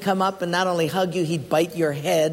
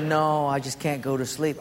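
Mike; 3 semitones lower than usual. Retold or imitated. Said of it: "He said".

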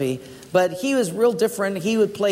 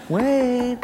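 Mike calling; 6 semitones higher than usual. Retold or imitated. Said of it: "He said".

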